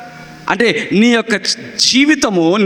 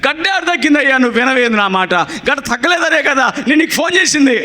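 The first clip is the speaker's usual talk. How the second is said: impatient caller; 3 semitones higher than usual. Retold or imitated. Imitated caller scolding the pastor.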